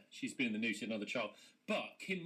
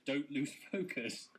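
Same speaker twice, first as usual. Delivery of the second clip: reading email slogan; slower than usual. Retold or imitated. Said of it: "It says".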